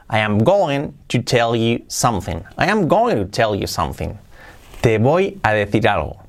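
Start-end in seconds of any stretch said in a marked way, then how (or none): 0.1-2.4 slow, careful English line; slow model sentence. Shown as a demonstration. Teacher modelling going to sentence, slow and careful. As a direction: read it slowly for learners. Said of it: "model sentence read slowly".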